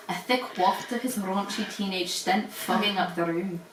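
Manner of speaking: hammed-up Scottish accent narration. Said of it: "read in Scottish".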